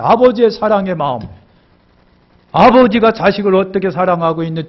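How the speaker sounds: ordinary talk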